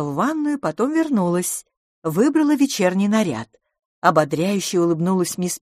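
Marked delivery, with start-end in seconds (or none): none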